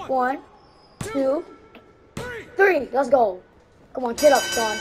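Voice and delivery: loud cheering count; excited counting. Real, not acted. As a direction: count the pin along loudly.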